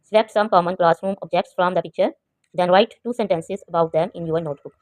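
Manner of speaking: very slow, word-by-word reading; deliberate, spaced-out classroom reading; slow textbook read-aloud. Shown as a demonstration. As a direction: read out instructions slowly for young learners. Reads textbook instructions aloud.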